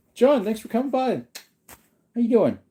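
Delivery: excited greeting. Real, not acted. Greeting a viewer joining.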